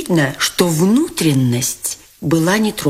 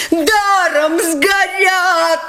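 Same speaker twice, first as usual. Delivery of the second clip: much higher, slow bellowing; roaring crowd; 14 semitones higher, much slower than usual. Acted. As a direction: bellow in dismay. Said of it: "ревели со всех сторон". (высокий протяжный рёв)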